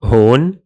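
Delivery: هون said as "hon"; teacher model of هون as "hon"; Levantine demo word. Shown as a demonstration. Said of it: "speakers usually say".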